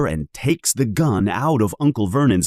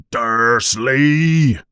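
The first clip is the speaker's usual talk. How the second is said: yell; 3 semitones higher, 4 dB louder than usual. Acted. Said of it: "he yells".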